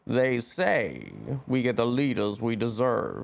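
slow, deliberate, lightly voiced politician; a light take on Underwood; Frank Underwood impression. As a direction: draw each word out with menace. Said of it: "Do your best".

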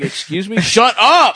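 put-on sassy girlfriend. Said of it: "She's like".

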